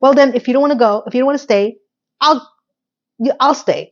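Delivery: quick, huffy retort, then halting; mildly miffed mock comeback; with attitude. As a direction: imitate her getting an attitude. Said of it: "she gets an attitude".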